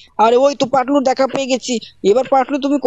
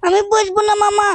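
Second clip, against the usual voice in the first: higher, wailing whine; child's sobbing refusal pitched up high; crying refusal; 5 semitones higher than usual. Acted. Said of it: "তুই এরকম ভাবে কান্না করছিস কেন".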